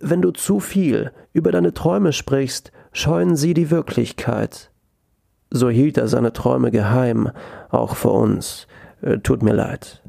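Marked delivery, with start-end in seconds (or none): 0.0-4.7 grandmother voice. Retold or imitated. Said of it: "Seine Oma sagte ihm einst".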